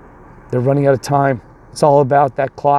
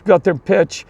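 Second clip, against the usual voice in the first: higher-pitched outraged protest, only mildly raised; mock screaming parents; 4 semitones higher than usual. Parents confronting the coach over his pitcher, mild mock scream. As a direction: imitate parents screaming, without a full yell. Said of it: "the parents were screaming at me".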